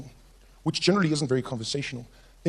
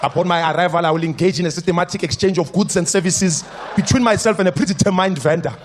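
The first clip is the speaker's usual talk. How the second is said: lightly voiced bureaucratic friend; mock-formal chat, overblown; pompous politician. Politician friend answering weekend plans, lightly pompous. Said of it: "if you speak like this".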